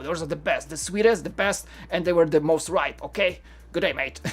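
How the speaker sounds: badly imitated Aussie farm worker; terrible Australian accent. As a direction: give friendly directions in amateur Australian. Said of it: "that was terrible Australian accent".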